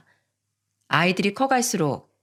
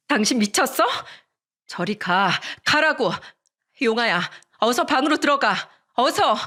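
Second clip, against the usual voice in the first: higher, urgent protective mother; alarmed urgency; 4 semitones higher than usual. Acted. Mother sending son to safety from husband, urgent. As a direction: push him off and hurry the child away.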